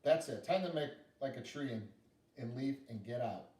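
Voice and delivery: hammed-up huff of a girl walking off; fed-up little girl. Girl giving up on the bear, mildly mock angry.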